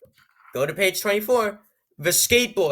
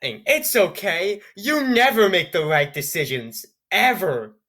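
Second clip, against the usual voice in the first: "It's okay" drawn out very slowly, dripping sarcasm; mock the fake comfort, slow and deadpan; sarcastic mock consoling. Mocking Zoe's so-called consoling words, sarcastic and slow. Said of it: "yes, this is so consoling".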